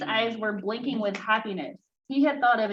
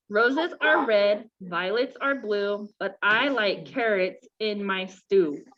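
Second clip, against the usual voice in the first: slow sing-song recital; reciting a poem; slower than usual. A narrator's reading. Rabbit reciting his verse to the class, slow sing-song. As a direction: recite it slowly like a school verse. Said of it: "and recited".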